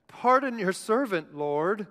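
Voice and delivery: reluctant, whiny appeal to God; whiny Moses. Acted. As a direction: plead with a touch of a whine. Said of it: "hear him in this whiny voice".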